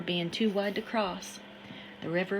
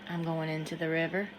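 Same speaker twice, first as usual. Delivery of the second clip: calm; 3 semitones lower than usual. Acted. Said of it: "calm as anything".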